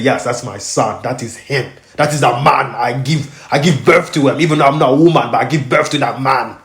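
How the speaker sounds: a hint of his father insisting he's the dad; imitating dad. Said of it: "My dad said".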